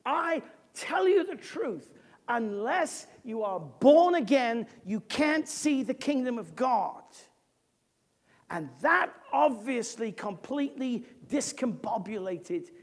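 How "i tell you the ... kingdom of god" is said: deliberate, with BORN AGAIN stressed; weighty, measured declaration with firm stresses; emphatic pronouncement. Retold or imitated. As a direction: lean on "born again" and "can't". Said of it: "he says very emphatically".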